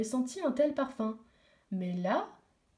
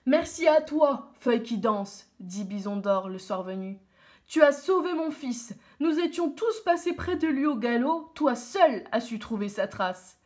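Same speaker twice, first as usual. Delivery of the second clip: lightly voiced chief, louder and firm; grateful chief; 4 dB louder than usual. The chief thanks the girl.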